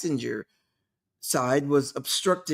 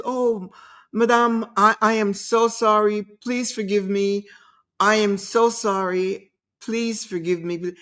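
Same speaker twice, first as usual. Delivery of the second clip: a touch higher, lightly voiced pleading apology; profuse apology; 4 semitones higher than usual. Taxi driver apologizing to his passenger, lightly mock pleading. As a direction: imitate the driver's gushing sorry, mildly. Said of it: "This man was so sorry".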